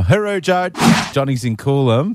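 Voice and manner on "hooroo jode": drawn-out Aussie farewell. Acted.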